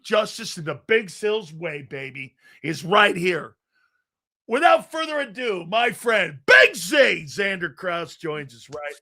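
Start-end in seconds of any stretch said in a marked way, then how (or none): 4.5-8.9 announcer introduction. Real, not acted. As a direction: bring on the guest like a hype announcer. Host introduces guest with fanfare.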